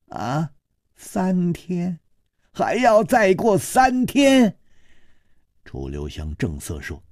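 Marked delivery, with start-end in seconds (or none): 0.1-4.6 dismayed surprise. Acted. Liang Ma dismayed at three days.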